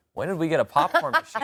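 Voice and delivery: high, laughing question to mom; half-laughing mock shock; calling mom about the listing photos, laughing in disbelief. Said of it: "I called my mom and I go".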